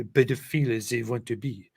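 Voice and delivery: put-on light French accent. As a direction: read it with a French lilt. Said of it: "perfect in a French accent".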